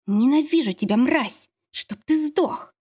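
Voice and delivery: the pitch climbs into a strained, slowed curse; злая ненависть. Acted. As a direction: spit the hate out, dragging the last words. Героиня проклинает Лёшу. (злое проклятие, с надрывом)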